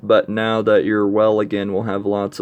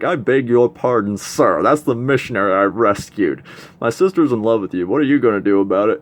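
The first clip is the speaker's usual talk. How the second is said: mock-indignant, raised and fast toward the end; loud confrontation; 6 dB louder than usual. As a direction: read the brother's challenge louder and pushier. Brother confronts the rescued missionary.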